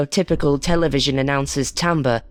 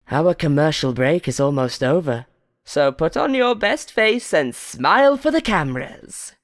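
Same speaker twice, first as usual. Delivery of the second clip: menacing game show host. Acted. Host warning the contestants, menacing. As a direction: lean on every word like a threat.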